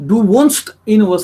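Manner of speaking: "wohnst" slowly, with S and T both sounded; sounded final T. Shown as a demonstration. Teacher insisting on final T, slow, clear "wohnst". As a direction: finish "wohnst" on a crisp T before "in". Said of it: "you have to have t".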